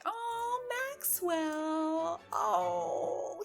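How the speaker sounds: high, touched cry of delight; touched gasp. Real, not acted. Moved by dressed-up son.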